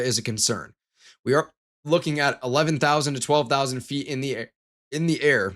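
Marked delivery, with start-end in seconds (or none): 1.3-5.5 words cut by a hiccup. Real, not acted. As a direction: hiccup interrupts, then repeats. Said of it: "these hiccups".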